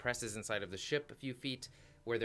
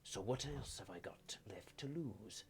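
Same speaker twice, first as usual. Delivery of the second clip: whispered grief. Acted. Grieving father about missing son.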